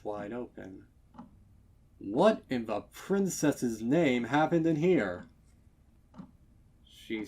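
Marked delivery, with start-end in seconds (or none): 2.0-5.3 loud, startled male pony exclaiming; shocked stallion. Acted. Stallion shocked to find the kitchen in a mess. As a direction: gasp it out at the ruined kitchen.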